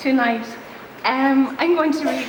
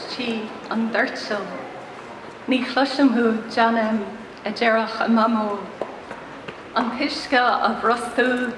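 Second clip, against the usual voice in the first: measured Irish poetry reading with pauses between lines; poem recitation. Acted. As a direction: read it out as verse, phrase by phrase. Reads own poem in Irish.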